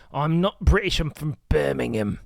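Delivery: a light mock Birmingham accent. Streamer mocks a proud Birmingham local in a light Birmingham accent. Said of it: "whatever the Birmingham accent is".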